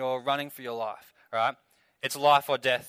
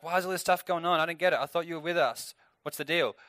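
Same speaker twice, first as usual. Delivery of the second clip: puzzled complaint; 4 semitones higher than usual. Retold or imitated. Voices Gideon before he understood.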